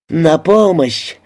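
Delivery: slow, high, drawn-out cry; wail for help. A narrator's reading. Frenchwoman in the crowd calls out, wailing for help. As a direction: stretch a restrained wail upward. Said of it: "раздался очередной вопль".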